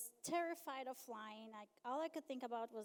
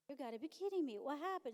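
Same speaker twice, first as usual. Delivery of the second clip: out-loud disbelief; 4 semitones higher, 4 dB louder, faster than usual. Retold or imitated. But inside of me.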